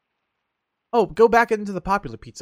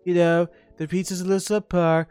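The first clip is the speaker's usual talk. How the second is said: mock political speech, barely changed voice; lightly voiced Trump pitch; Trump impression. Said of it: "Why did I go on a Trump rant".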